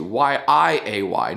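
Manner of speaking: slow letter-by-letter spelling; deliberate, evenly spaced letters; spelled out. Shown as a demonstration. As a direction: spell it out carefully, one letter at a time. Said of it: "and spell it right".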